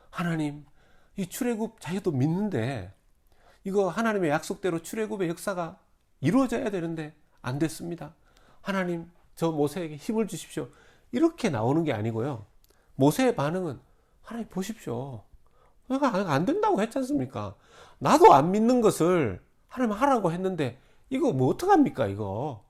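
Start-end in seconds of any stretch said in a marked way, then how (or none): 0.1-10.7 earnest plea. Acted. Imagined faithful prayer of Moses. 14.2-22.6 high, loud, rising complaint; mock protest, getting louder; exasperated Moses.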